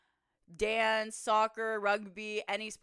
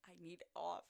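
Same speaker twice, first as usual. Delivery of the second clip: barely voiced, very soft plea; mouthing; 3 semitones lower, 15 dB quieter than usual. Hurt player signalling to teammate, mouthed plea. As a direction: mouth it almost silently. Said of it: "I'm literally mouthing".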